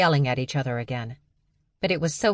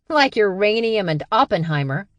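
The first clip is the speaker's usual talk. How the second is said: gleeful, raised and louder jab; crowing; 6 semitones higher, 6 dB louder than usual. Acted. Max taunting Stevie, crowing gleefully. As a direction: crow it out at her sister. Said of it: "Max crowed".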